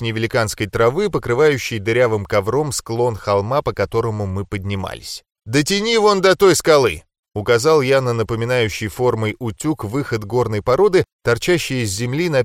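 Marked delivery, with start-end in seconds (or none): 5.5-7.0 high, loud call ahead. Acted. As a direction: shout it up the slope. Calling ahead on climb.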